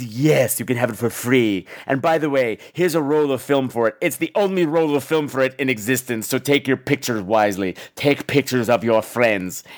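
low, measured put-on man's voice; antique shopkeeper. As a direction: intone it like a portentous movie shopkeeper, slowing at the end. Mimicking the shopkeeper at length.

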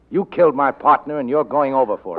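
nail her with the charge; firm accusation. Acted. Detective telling the killer she will hang, loud and firm.

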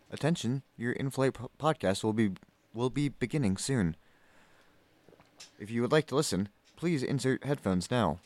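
in-flight announcement; flight attendant voice. Pretend. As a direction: airline cabin announcement. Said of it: "can you do that in your stewardess voice".

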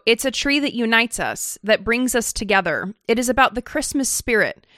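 lightly mocking TV host reading; mock Ainsley quote. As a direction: read her quote with mild mock earnestness. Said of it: "according to Ainsley, quote".

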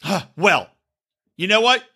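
smug, pointed quote; mock defiant woman. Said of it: "she's like".

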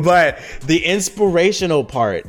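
laughing through the words. Real, not acted. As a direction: still chuckling as it comes out. Laughing right after a big laugh.

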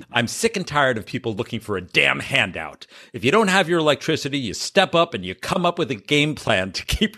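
emphatic mock-stern reading of a tirade; dramatic reading. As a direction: read the statement out with theatrical punch. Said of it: "do a dramatic reading of".

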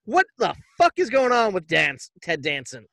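incredulous, indignant questioning; mock-outraged bachelor, stretching the questions; mock disbelief. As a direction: act out baffled outrage at the delivery. Acting out bachelors' shock at baby.

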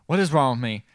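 mildly acted freak-out, building; retold freaking out. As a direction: ask it harder, starting to panic. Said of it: "Starts freaking out".

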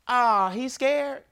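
slow teasing onlooker voice; mock bystander taunt. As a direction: drag it out like a heckler. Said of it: "comments on the way down".

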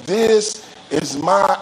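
slow build to a heavy "my"; "my" as if written in capitals; stress on my. Real, not acted. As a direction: lean hard on "my", drawn out. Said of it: "I love how they put "my" in capital letters".

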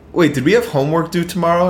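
mock the kid who always asks; mimicked schoolkid.

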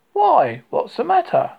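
little bear's anxious question; concerned bear. Acted. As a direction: pipe up with worried surprise.

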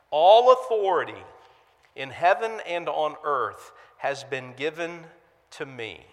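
measured, weighty Bible reading with swells on key words; scripture reading. Acted. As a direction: read the Great Commission with solemn authority. Reads scripture passage aloud.

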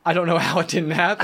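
repeating it through a laugh; giggling disbelief. Retold or imitated. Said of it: "but I'm like".

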